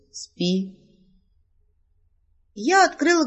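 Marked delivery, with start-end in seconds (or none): 0.1-0.8 soft, calm spell word; calm command. Acted. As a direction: lay the word down quietly like a spell. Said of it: "спокойно произнёс". (маг спокойно и тихо усыпляет героиню)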